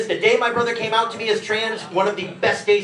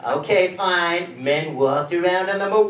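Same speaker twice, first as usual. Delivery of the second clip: slow mocking voice that makes it sound stupid; dumb sarcastic voice; 3 semitones lower, slower than usual. Told off by mom for using a mocking voice, slow and mocking. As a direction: say it like it's obviously ridiculous. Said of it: "if you use that fucking voice".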